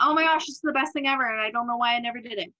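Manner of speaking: playfully imagine being a delighted convert; mock enthusiasm. Imagines herself converted to meditation.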